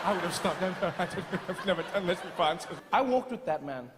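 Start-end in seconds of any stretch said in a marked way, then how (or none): 0.1-2.8 hurried, mildly pleading apologies; mock-apologetic babble. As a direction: keep apologizing as you trail behind. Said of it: "all apologetic".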